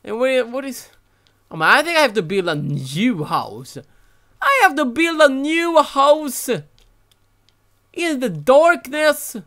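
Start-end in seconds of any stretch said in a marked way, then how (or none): 4.4-9.4 exasperated. Real, not acted. Despair at rebuilding.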